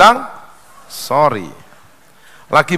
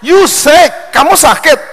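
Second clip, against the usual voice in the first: baffled boss; 10 semitones higher, 5 dB louder, slower than usual. Acted. Confused boss asks in joke.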